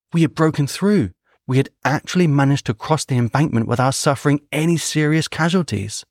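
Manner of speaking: animated war-memoir reading; stirred story narration. A narrator's reading. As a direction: tell the breakthrough with mounting excitement. Narrates the successful charge.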